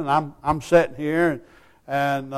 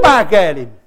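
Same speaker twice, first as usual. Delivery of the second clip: usual speaking voice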